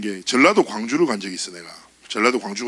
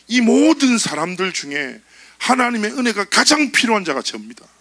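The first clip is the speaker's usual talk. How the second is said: earnest prayer; 8 semitones higher than usual. Shown as a demonstration. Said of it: "이렇게 고백하면 돼".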